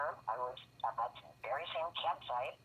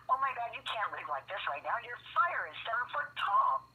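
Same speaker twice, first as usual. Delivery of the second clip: alarmed inner voice; 10 semitones higher, 3 dB louder than usual. Retold or imitated. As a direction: sound the alarm to yourself.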